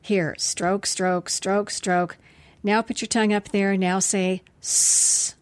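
choppy, bored rote commands; mock drill instructions. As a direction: rattle off rote therapy orders. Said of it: "This is not".

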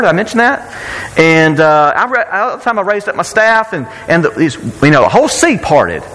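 put-on casually boasting in a Southern accent; boastful Southern Moses. Preacher imagines Moses bragging to Jethro, boastful Southern accent. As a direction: brag with a Southern twang, rattling off exploits. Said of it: "became more southern, but he just did, 'cause he's boasting".

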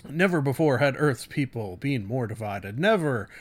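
light dramatic trailer read with weighty pauses; William Shatner style. Acted. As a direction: loosely ham up the blurb like a movie trailer. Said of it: "I'm doing a William Shatner impression".

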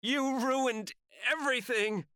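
high, loud, slow screamed accusation; furious scream. A narrator's reading. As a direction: tear into him, screaming. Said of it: "Sarah screams so loud".

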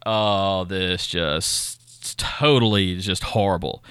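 slow, drawn-out dismay; retold dismay. Father learning his son tested positive, slowly dismayed. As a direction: let it sink in, dragging the words. Reaction to son's positive test result.

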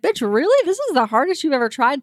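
high, disbelieving "really?"; mock outrage at the claim; voiced like she can't believe it; incredulous. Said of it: "And I was like".

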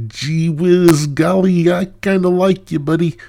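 squeaky high gushing falsetto; high goofy voice. Pretend. Host tells a listener what to say, high giddy squeak. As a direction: gush it up high and loud, giddy. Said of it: "and say".

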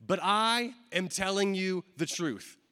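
slow weight on "I", then measured to "truth"; emphatic declaration. Retold or imitated. Preacher quoting Jesus to the disciples, slow and emphatic. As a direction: stretch "I" and set down each word firmly. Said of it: "putting a greater emphasis on the words".

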